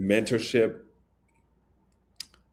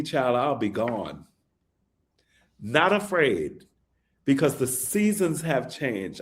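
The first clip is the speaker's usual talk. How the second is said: lyric recitation. Real, not acted. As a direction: recite it line by line like a poem. Recites his song lyrics.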